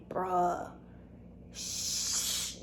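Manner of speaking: whispered shh to herself; hushed whisper. Retold or imitated. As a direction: hush it under your breath. Hiding from cop, hushing.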